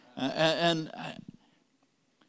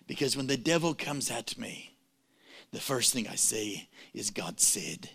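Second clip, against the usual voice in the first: impression of Mike; 2 semitones lower than usual. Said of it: "I'm not gonna do voice impersonations".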